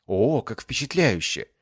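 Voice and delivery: slow, mock-impressed and patronising; condescending. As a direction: fake praise from above. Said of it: "В голосе Сонг появились нотки снисхождения".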